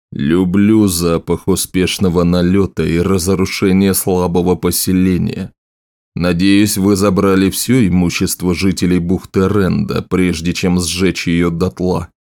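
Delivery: lightly voiced king, slightly low; gloating raider king. King relishes the raid before the general, lightly gloating voice. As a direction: savour the destruction, a hint of a brutish king.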